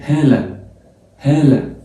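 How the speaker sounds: هالة with a breathy h at the start; English h pronounced. Shown as a demonstration. Teacher showing the English h to students: هالة with a breathy h. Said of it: "في الإنجليش بتتنطق أقول إيه".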